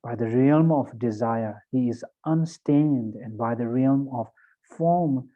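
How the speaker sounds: measured prayer reading, phrase by phrase; sutra recitation. Acted. Teacher leading students in reflecting on the three jewels sutra, measured recitation. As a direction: recite devotionally with deliberate pauses between phrases. Reads the sutra aloud slowly.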